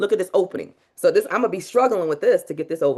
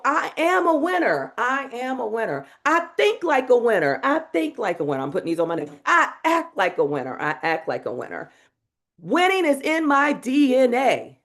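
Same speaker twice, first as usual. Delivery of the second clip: paced mantra; 3 semitones higher than usual. Shown as a demonstration. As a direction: lead it line by line. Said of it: "allot time for the repeat".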